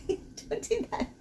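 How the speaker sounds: high, soft, slow whispered warning; parents scolding. Retold or imitated. Parents warning the sugar-eating kid, slow hushed whisper. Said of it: "My parents are like".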